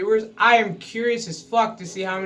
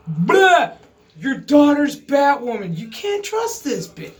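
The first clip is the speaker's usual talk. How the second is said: louder, higher mock blurt; hammed-up snitching; 5 semitones higher, 5 dB louder than usual. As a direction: spill the secret all at once. Mock Sophie blurting to Daddy.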